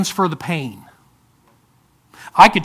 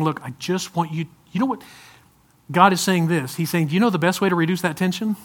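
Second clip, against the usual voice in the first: lightly voiced tender God; gentle God voice. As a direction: coax the listener kindly.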